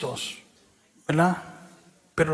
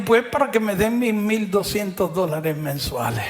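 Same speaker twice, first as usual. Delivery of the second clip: franco y en voz alta; respuesta gritada; 3 semitones higher than usual. Retold or imitated. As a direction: soltarlo en voz alta sin vergüenza. Friend's blunt punchline. (el amigo confiesa por qué va, en voz alta)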